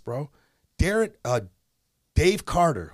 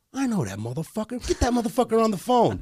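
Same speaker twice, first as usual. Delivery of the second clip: excited recognition; 9 semitones higher than usual. Retold or imitated. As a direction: pitch climbing as recognition hits. Acting cousin recognizing him on phone.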